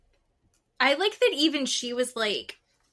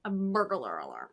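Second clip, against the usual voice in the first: imitating Southern; 3 dB quieter than usual. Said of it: "I can't stop saying".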